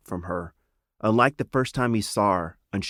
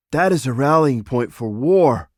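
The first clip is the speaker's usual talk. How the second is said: louder, alarmed objection; exclaiming; 5 semitones higher, 7 dB louder than usual. Acted. Father objects to his daughter's plan, loud exclamation. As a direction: protest it sharply. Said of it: "exclaimed Counselor Dagilu".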